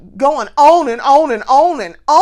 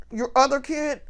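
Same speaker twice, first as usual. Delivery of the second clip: put-on softer "Your other kid?" as a quick undertone; hushed nudge; 2 semitones higher, 8 dB quieter than usual. Stepmother-in-law prompting her husband about his son, hushed. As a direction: mutter it sideways to him. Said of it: "he noticed her nudge him and be like".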